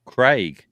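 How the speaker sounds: Craig said loud and clear as the name; over-pronounce Craig, falling; careful Craig. Retold or imitated. Telling the barista his name, loud and deliberate. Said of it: "I now have to say C R A I G".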